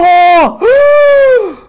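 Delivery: very high, loud crying gasp; shrieking gasp. Real, not acted. Showing the texture to viewers, shrieking gasp. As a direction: gasp as if it hurts how good it is. Second look at textured card.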